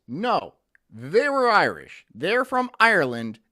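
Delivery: insistent retort. Real, not acted. Insisting against imagined objection.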